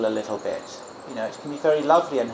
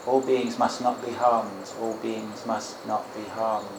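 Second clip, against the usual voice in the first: measured repeated phrase, fading softer; slow, mindful recitation; 2 semitones lower, 5 dB quieter, slower than usual. Shown as a demonstration. Teacher shows students a lovely reflection, slow and mindful. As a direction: say it slowly, letting each word settle. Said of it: "You can say it kind of slowly".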